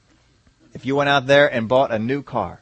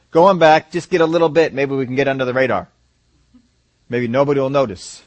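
louder, hurried Jacob sneaking for food; paraphrased Jacob; 6 dB louder than usual. Retold or imitated. Preacher paraphrasing Jacob to his sons, louder and hurried. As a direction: push it out fast like a sly old father. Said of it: "In other words".

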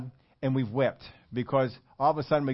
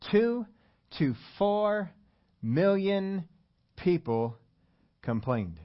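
a pause after "Two", "four", "million" and "people"; word-by-word hammering of "Two to four million people"; emphatic pauses; 4 semitones higher, much slower than usual. Real, not acted. Drives the number home word by word.

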